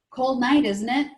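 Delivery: lightly voiced Polish accent, bright and loud; a hint of an old Polish woman's accent; thick Polish accent. Old Polish kitchen volunteer greeting the boy, light Polish accent. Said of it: "in her thick Polish accent".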